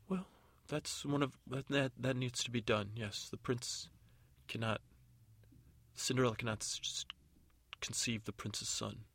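lightly voiced, halting godmother; flustered fairy godmother. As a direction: admit it reluctantly, with stumbles.

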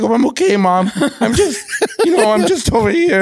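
high-pitched, imitated drunk reassurance; drunk son. Son drunk on the phone to mom, high-pitched fake reassurance. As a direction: play drunk and insist all is fine. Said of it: "Like, all fucked up".

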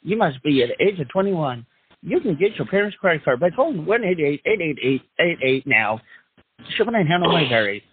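fast cheesy TV ad pitch; hammy announcer voice. Acted. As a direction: rattle off the fine print like an infomercial. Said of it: "do the hammy announcer voice".

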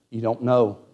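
low, subdued imitation of a choked-up friend; retold breaking down. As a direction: quote him gently, deep and halting. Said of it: "he just really broke".

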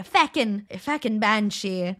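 lightly imitated Irish brogue; Irish accent. Host shows the film accents she loves, Irish accent. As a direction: toss it off in a playful Irish accent. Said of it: "I like an Irish accent".

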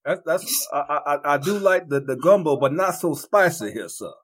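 The speaker in a put-on Cajun accent, lightly hammed; mock Cajun accent. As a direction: lightly play a Cajun gentleman. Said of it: "giving him all the Cajun".

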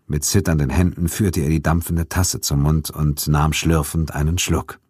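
usual speaking voice

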